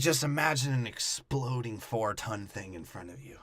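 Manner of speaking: hushed whisper coaching an actor; breathy, soft mock direction.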